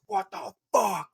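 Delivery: high, slow, squeaky mock rage; mock angry outburst. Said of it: "Like, so angry".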